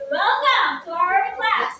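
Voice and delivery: projected classroom welcome; loud voice. Shown as a demonstration. Teacher showing pupils a loud voice, projected. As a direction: project to a room without shouting. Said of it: "using loud voice".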